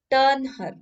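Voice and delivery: high, loud captain's shout; shouted order. A narrator's reading. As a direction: bark the order across the water. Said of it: "he shouted".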